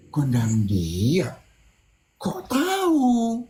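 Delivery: slow, drawn-out stunned question; shocked disbelief. Retold or imitated. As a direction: stretch it out in disbelief. Retold shocked friend.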